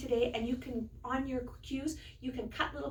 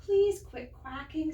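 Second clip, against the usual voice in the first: mild quail plea; 5 semitones higher than usual. Acted. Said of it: "says Quincy".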